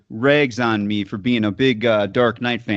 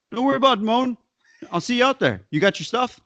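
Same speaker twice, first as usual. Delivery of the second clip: higher pitched mock-casual brush-off; teasing Matt imitation; 9 semitones higher, much faster than usual. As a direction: toss it off high and breezy, keeping the secret. Imitating Matt's teasing pre-match reply.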